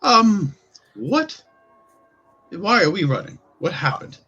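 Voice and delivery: high, loud confused voice; confused NPC. Acted. Heteru stops the fleeing drunk, high and confused. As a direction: squeak out the confusion. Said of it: "Heteru stops you and he says".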